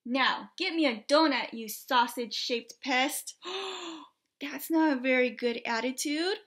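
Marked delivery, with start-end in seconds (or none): 0.1-3.4 loud rude command; bossy demand. Acted. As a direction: order him about like a brat. Pig ordering Trevor.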